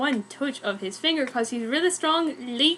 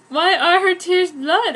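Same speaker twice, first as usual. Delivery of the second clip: curious; 5 semitones higher, 6 dB louder than usual. A narrator's reading. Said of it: "all curious".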